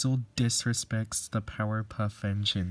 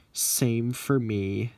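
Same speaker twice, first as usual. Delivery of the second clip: sadly; 5 dB louder, slower than usual. Acted. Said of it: "said Percy sadly".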